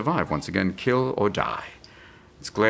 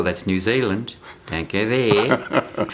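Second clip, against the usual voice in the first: put-on New Zealand-style accent; antipodean accent; much slower than usual. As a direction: stretch the last words in a mock antipodean accent. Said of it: "it is an interesting accent".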